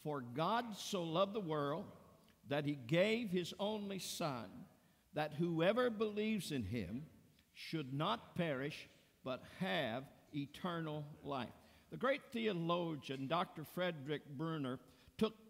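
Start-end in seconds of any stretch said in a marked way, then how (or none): 0.0-11.5 reading aloud. Shown as a demonstration. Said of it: "Read it out loud with me".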